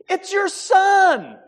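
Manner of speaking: high, slow, loud mock caller; scam caller as son. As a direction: call out like the fake son, high and drawn out. Imitating scam caller posing as son.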